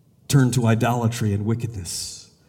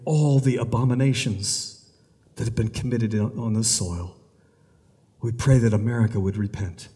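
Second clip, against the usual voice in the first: prayer. Acted. Pastor praying for the nation before congregation, earnest. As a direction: plead with God on behalf of the land.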